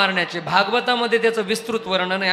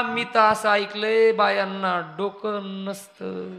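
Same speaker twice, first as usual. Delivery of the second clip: teasing laugh; 3 semitones lower, 4 dB quieter, slower than usual. Acted. Mocking line, laughing.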